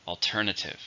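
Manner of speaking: "Alternative" stressed on TER; stress on second syllable. Shown as a demonstration. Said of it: "Stress on the second".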